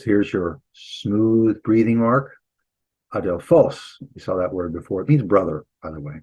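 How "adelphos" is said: "Adelphos" stressed on the final syllable, adel-PHOS; last-syllable accent. Shown as a demonstration. Teacher demonstrating the acute accent, final-syllable stress. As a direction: rise onto the end of "Adelphos". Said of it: "the accent here on the last syllable".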